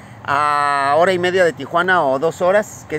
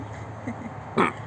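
throat clearing; 12 dB quieter than usual. Real, not acted. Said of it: "acá tengo el mosquito".

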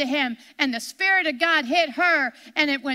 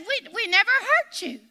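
higher-pitched retold protest; friends' denial; 5 semitones higher than usual. Retelling the friends' answer to her, higher mock-innocent denial. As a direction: lightly act out an innocent denial. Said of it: "they told her".

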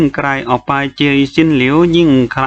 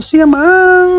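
angry shout; 7 dB louder than usual. A narrator's reading. Chu Wanning shouting at the entranced boy, fierce. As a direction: shout the name sharply to stop him. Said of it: "ชูวานหนิงเสียงเกรี้ยว".

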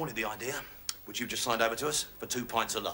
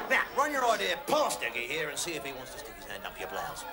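ordinary talk, nothing marked

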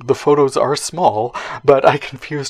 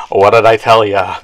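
gruff voiceover impression; 7 dB louder than usual. Lionel Stander voiceover quote.

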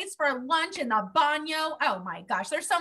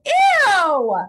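disgusted ew; 6 semitones higher, 10 dB louder than usual. Acted. Disgust at smelly duck.

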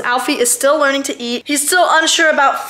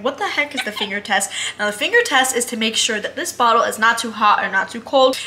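usual speaking voice

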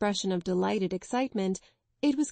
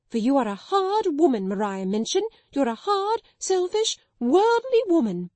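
building to much higher, louder shrieking; hysterical; 5 semitones higher, 5 dB louder than usual. Acted. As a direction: spiral from rant into shriek. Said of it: "her hysterical chokes and gurgles".

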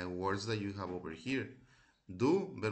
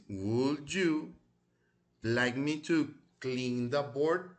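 slow model reading; 2 semitones higher, 3 dB louder, much slower than usual. Shown as a demonstration. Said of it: "vamos a repetirlas".

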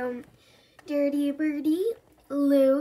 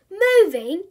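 shocked gasping question, higher and louder; gasped; 6 semitones higher, 9 dB louder than usual. A narrator's reading. Bertie hears about the move, gasping in shock. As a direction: gasp it in disbelief. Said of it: "he gasped".

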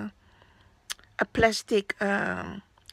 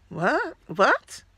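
puzzled; 3 semitones higher than usual. Retold or imitated. Puzzled flipping through the book.

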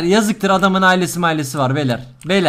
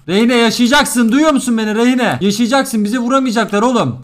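loud, raised melodramatic shout; mock-heroic rallying; 4 semitones higher, 7 dB louder than usual. Player urging Reyne to survive, mock-heroic shout. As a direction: cry out to keep a comrade alive.

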